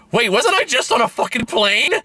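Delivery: high-pitched mock Texan bewilderment; thick Texan accent. Character waking up falling from a plane, mock Texan accent. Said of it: "in that thick Texan accent".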